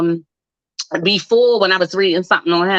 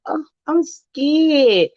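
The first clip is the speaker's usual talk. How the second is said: mock scared; 5 semitones higher, much slower than usual. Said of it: "they be like".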